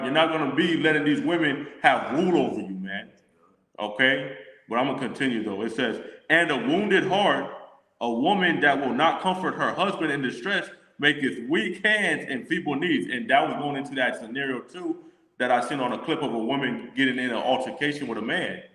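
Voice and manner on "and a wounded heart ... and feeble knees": scripture reading. Acted. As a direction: lift it and read it out like a preacher. Continues reading the verse.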